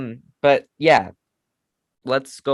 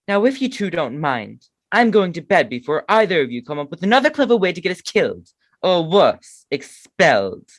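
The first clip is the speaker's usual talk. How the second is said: a hint of a prim schoolgirl; lightly voiced Hermione scolding; Hermione impression; 4 semitones higher, 3 dB louder than usual. Man voicing Hermione scolding the boys, lightly prim. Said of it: "okay, my turn".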